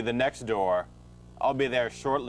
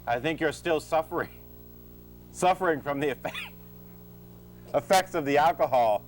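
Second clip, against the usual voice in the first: stumbling, restarting mid-line; fumbled line; 4 semitones higher than usual. Acted. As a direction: trip over the words. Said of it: "Why don't you start that line over?".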